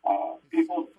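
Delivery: muffled tinny phone mic. Real, not acted. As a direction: sounds like talking in a tin can. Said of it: "you sound like you're in a tin can".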